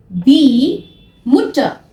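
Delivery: very slow die Mutter, r almost silent; German pronunciation. Shown as a demonstration. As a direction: say Mutter as Mut-ta, not Mutar. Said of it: "आपको इसको मुटर नहीं बोलना".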